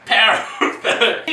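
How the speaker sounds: "Perfect" loud in a mock Scottish accent, laughing. Host proud of a bad Scottish accent, laughing. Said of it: "Did I say it right?".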